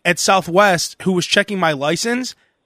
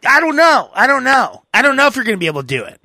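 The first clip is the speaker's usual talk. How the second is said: mocking the rude counter lady, higher, rushing; hammed-up impatient clerk; 5 semitones higher than usual.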